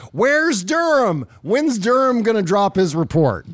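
high, slow whiny mock of impatient Republicans. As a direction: imitate them demanding the report. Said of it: "were like".

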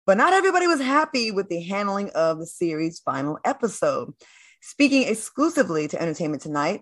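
measured entertainment-news delivery; scripted anchor read. Acted. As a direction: read it like a show host presenting a story. Reads entertainment news item.

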